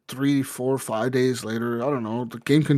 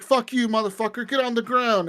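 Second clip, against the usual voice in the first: acted angry order; 8 semitones higher than usual. Retold cop ordering a smuggler down, mock angry. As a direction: play an irate cop without raising the volume.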